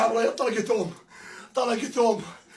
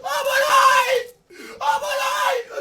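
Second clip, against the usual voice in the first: ecstatic goal scream; 5 semitones higher than usual. Real, not acted. Hoarse cry of joy at a goal.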